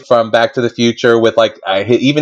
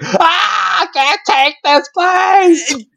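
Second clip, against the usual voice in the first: overwhelmed nurse; much slower than usual. Retold or imitated. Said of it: "she's like".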